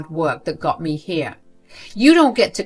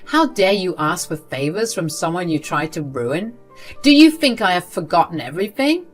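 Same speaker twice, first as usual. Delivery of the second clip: louder, furious outburst; raging; 4 dB louder than usual. Acted. Sarah raging at the grandmother who tried to ruin her. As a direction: let every word hit her. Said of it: "Sarah absolutely raged at Gwen".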